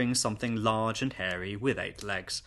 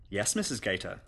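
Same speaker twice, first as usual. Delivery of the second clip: obedient; 2 semitones lower than usual. Acted. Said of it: "said Susan obediently".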